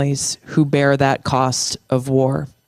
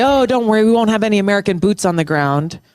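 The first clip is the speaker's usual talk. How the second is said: higher-pitched, breezy brush-off; mimicked don't-worry tone, pitched up; mock reassurance; 5 semitones higher, faster than usual. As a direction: imitate glib politicians waving worries away. Mocking politicians who call for war.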